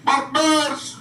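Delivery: high, ringing call of "Barbers!". Acted. Vlogger calling out to Barbers, high rally shout. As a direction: shout his name like a rally cry.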